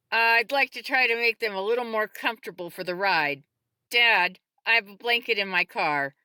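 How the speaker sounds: loud, brisk-minded leader giving orders; taking charge. A narrator's reading. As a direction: address the whole group with authority. Woman directs group at emergency.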